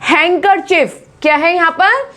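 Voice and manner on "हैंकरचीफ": हैंकरचीफ as "heng-kur-chif"; silent d demo. Shown as a demonstration. Teacher modelling handkerchief, silent d. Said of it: "डी यहाँ पे लगाया जाता है".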